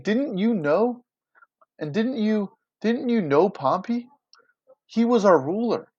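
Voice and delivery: high-pitched, incredulous reproach; mock anger. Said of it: "just super angry".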